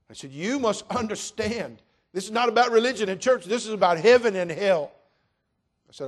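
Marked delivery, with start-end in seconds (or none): 0.3-4.9 full-force preaching. Acted. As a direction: hammer home heaven and hell.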